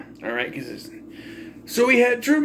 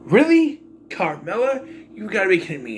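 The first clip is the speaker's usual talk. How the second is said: incredulous disbelief; 3 semitones higher than usual. Retold or imitated. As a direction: replay your shocked reaction to the news. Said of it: "And I went".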